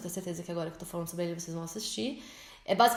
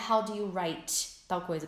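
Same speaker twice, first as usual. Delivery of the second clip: wrong question; slower than usual. Shown as a demonstration. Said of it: "não é".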